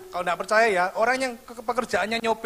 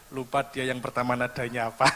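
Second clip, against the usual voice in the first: much softer, lower aside; whisper to wife; 12 semitones lower, 8 dB quieter than usual. Retold or imitated. Preacher whispering to his wife in church, soft aside. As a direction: lean in and murmur it to the wife. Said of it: "saya bisik istri saya".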